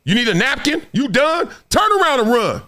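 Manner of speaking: needling coach voice; mock coach. Coach mocking a player who says he's throwing up, taunting. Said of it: "coach looking at you like".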